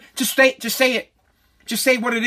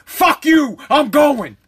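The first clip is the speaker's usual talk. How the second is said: defiant retort; 3 semitones higher, 3 dB louder, much slower than usual. Pretend. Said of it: "And you say".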